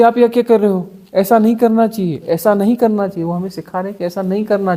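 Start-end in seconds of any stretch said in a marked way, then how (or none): 0.0-3.2 lightly raised, scolding village voice; a touch of disapproving villager; villagers objecting. Retold or imitated. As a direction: mildly mimic worried villagers. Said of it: "बोले".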